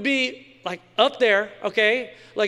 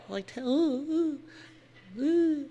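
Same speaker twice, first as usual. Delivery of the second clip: tattletale taunt; 4 semitones higher, 7 dB quieter, slower than usual. Retold or imitated. Tattling Karens.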